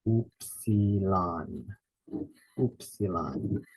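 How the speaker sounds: "Upsilon" with the weight on UP, drawn out slowly; stress on first syllable. Shown as a demonstration. Teacher slowly modelling "Upsilon" for students, first syllable stressed. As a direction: lean into the first syllable of "Upsilon", then let it fall away. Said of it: "Stresses that first syllable".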